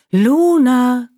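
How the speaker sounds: calling again. Acted. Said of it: "Ganz leise und deutlich rief sie ihren Namen".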